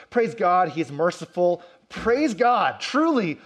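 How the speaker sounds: rising in pitch and volume, praise God; building praise. Real, not acted. Preacher building his congregation's praise to a peak.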